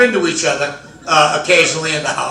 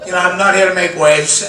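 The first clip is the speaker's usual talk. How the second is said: defensive husband; 4 semitones higher than usual. Retold or imitated. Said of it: "And I go".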